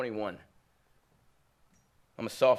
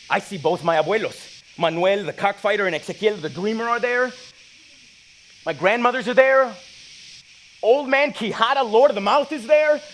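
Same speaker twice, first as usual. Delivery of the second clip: higher and louder with each name; awed excitement; 8 semitones higher, 9 dB louder than usual. Acted. Seeing his ancestors fill the theater, climbing awe. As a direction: build to a peak of wonder.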